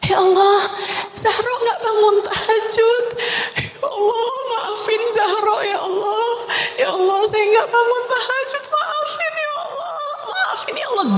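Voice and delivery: high, soft, tearful pleading to God; weeping prayer. Retold or imitated. Zahro begs Allah's forgiveness for missing tahajud, weeping softly. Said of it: "Umi saya menangis nggak henti".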